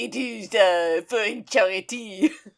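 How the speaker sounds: worst terrible put-on French accent. Describing a minor character's single line, doing a bad french accent. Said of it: "worst French accent I've ever".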